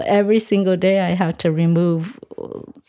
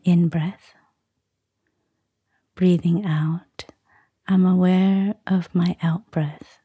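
guided meditation. Acted. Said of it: "give us a short guided meditation".

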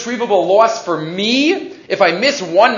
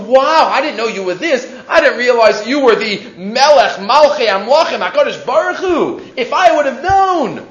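awestruck realization; 4 semitones higher, 3 dB louder than usual. Retold or imitated. Acted astonished address to God.

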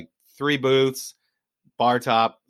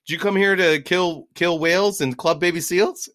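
high, loud mock Scotsman; high-pitched, excitable imitation; 7 semitones higher, 5 dB louder than usual. Scottish fisherman teasing tourists about whaling, high excitable imitation. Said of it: "he was very excitable".

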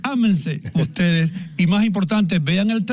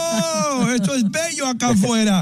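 put-on Indian accent; 8 semitones higher than usual. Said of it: "y dijo en un perfecto acento indio".

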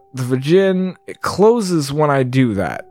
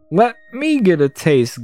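goblin voice; 4 semitones higher than usual. Acted. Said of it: "Goblin Guard exclaimed".

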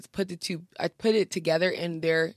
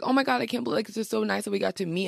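higher-pitched gushing, lightly imitated; retold excited greeting, pitched up; imitated delight; 5 semitones higher, faster than usual. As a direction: gush as if quoting a thrilled new friend. Voicing the influencer's delight at meeting.

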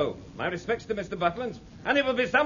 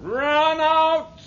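shouted order; 8 semitones higher, much slower than usual. Acted. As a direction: bark the order across the deck. Naval officer bellowing orders.

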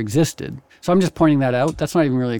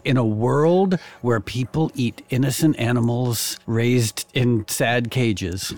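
movie trailer voice; 2 semitones lower, slower than usual. Pretend. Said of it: "And you're like".

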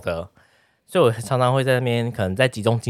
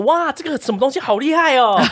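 higher, hammed-up gushing wow; mock amazement; 12 semitones higher than usual. Imitating the boyfriend calling her over, higher mock-amazed. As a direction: lure her over with fake wonder. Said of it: "他要你过去看说".

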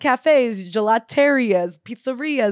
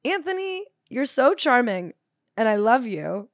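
mock fond plea; 2 semitones higher than usual. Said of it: "I was just like".

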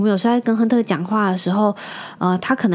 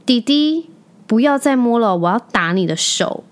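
mock stern cashier; 3 semitones higher than usual. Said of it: "她说".

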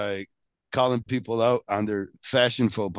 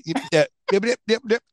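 Biden impression; 12 semitones higher, 4 dB louder than usual. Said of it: "You're fucking stuttering".

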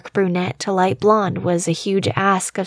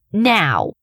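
piercing command. A narrator's reading. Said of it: "I added a piercing".

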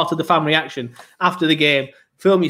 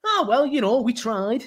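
higher, lightly mocking shrug of a voice; a hint of a deflated supporter; resigned fan; 7 semitones higher, 4 dB quieter, slower than usual. Host imitating a fan resigned after a loss, lightly mocking. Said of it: "shite to".

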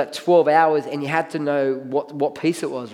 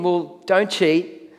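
slow emphatic; much slower than usual. Shown as a demonstration. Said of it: "slow punchline of point".

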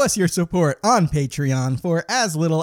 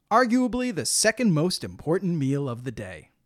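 upbeat retro commercial announcer; chipper 1950s ad; 4 dB quieter, faster than usual. Acted. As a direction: pitch lunch like an old TV spot. Sponsor ad for lunch.

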